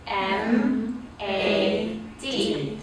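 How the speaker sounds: "M", "A", "D" spelled out as letter names; name each letter slowly apart; letters named one by one. Shown as a demonstration. Teacher spells mad letter by letter. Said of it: "say the letters".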